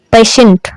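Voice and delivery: "पेशेंट" with sh in the middle; "पेशेंट", a hushing sh before the last syllable. Shown as a demonstration. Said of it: "टी की ध्वनि सा हो जाती है".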